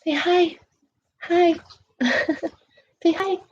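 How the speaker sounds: high coaxing pet voice; sweet high voice coaxing a pet; talking to the cat. Real, not acted. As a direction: coo at the cat to say hi. Coaxing her cat Emma to greet.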